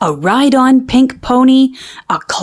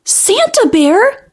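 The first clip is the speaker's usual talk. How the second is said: high, slow delighted squeal of a cub; excited cry; 12 semitones higher, slower than usual. A narrator's reading. Little cub squealing at news of Santa Bear, excited. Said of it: "she cried".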